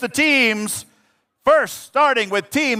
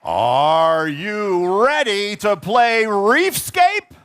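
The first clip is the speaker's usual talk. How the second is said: slow, drawn-out crowd call; hype-up call; 3 semitones lower, slower than usual. Real, not acted. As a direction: stretch it out to pump the crowd. Emcee hyping robotics crowd.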